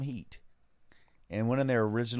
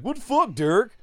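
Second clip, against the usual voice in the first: high, loud outburst at a partner; acted-out alarmed yelp; shocked protest; 11 semitones higher, 7 dB louder than usual. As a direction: call out in outraged disbelief. Acted shocked henchman quote.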